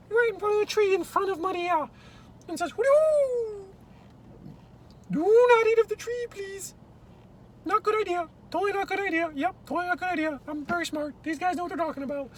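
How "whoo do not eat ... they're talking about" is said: owl voice. Acted. Owl character speaks.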